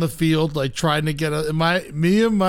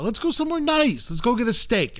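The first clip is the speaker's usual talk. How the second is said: higher-pitched imploring protest; exasperated pleading; 6 semitones higher than usual. Retold or imitated. Son to dad about the buffet, exasperated pleading. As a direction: plead for a better plan.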